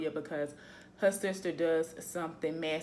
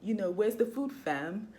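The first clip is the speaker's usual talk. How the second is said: imitating London accent. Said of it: "because of their accent and stuff".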